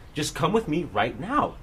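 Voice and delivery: slow, insistent order with mild attitude; retold attitude. Staffer ordering student along, mild retold attitude. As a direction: imitate someone impatiently insisting. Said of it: "gave me all this fucking attitude".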